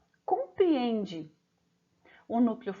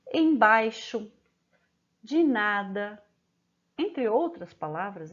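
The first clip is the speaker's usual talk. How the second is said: each phrase slow and separate; teacher reading a word list to pupils; slow dictation. Shown as a demonstration. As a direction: dictate them slowly with pauses. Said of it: "O ditado de palavras como".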